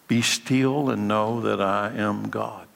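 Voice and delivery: solemn quote. Shown as a demonstration.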